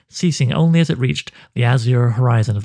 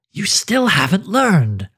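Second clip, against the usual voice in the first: higher, slower, otherworldly taunt; eerie taunting spider; 7 semitones higher, slower than usual. Acted. The hooded one taunts Gala as he beats it, eerie slow taunt. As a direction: drawl it out like a creature that feels no pain.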